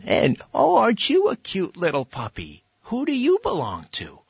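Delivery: put-on high, sing-song baby talk to a dog; high cooing puppy voice while backing away; silly puppy talk. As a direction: coo at the scary dog like a fool. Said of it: "talking to the dog like an idiot".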